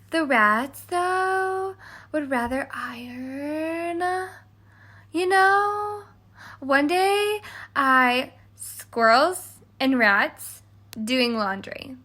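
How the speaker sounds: lightly voiced starry-eyed girl; dreamy young girl. Cindy's squirrel and rat tale.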